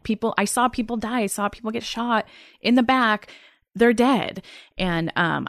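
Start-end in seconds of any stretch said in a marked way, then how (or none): 0.0-4.4 frustrated. Retold or imitated. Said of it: "I was so frustrated".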